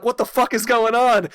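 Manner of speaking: high, loud what-is-happening cry; panicked disbelief. Retold or imitated. Player chased into the moat by the knight, high and panicked.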